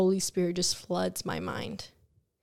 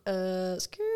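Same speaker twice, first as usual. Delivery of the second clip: hesitate, then screech to a halt; balking with a mock skid sound; imitated tire screech; 3 dB quieter than usual.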